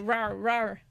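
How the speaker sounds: lightly voiced mock alligator roar; mild imitated roar. Host demonstrating alligator calls to listeners, mild imitated roars. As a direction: roar twice, only in imitation. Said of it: "sånne brøl".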